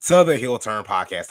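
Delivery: loud, booming podcast intro with bass; deep announcer voice. Acted. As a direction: belt the opener, pushing bass in. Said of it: "Let me put some bass in my voice".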